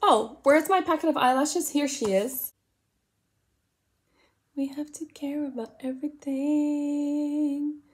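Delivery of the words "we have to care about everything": slow, unvoiced weary whisper. Real, not acted. Whispering a weary aside about women's duties. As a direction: breathe it out as a tired aside.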